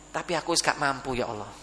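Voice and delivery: low, soft surrender; helpless plea. Acted. Father confesses to God he can't manage his son, quietly helpless. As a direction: let it sink down quietly to a murmur.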